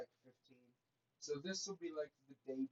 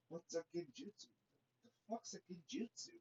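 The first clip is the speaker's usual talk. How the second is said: high, softer clueless voice; clueless question; 8 semitones higher, 7 dB quieter than usual. Retold or imitated. Naruto asking Itachi about an unknown jutsu, clueless. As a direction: pipe it up high, totally lost.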